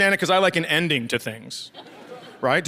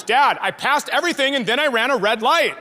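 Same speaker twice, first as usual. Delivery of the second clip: protesting daughter; 6 semitones higher than usual. Retold or imitated. Retold daughter protesting the failed test.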